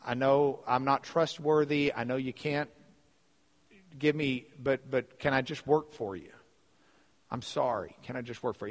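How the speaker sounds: subdued, halting son practicing an apology; acted contrite son, understated; rehearsed apology. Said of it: "he's practicing the speech".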